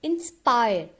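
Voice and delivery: इंस्पायर with the stress on its second part, पायर. Shown as a demonstration. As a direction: lean on पायर in इंस्पायर, leaving इंस unstressed. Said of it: "पायर पर stress आ रही है".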